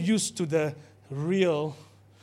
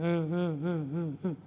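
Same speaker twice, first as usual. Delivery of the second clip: mock crying; 5 dB quieter, slower than usual. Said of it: "But we are crying".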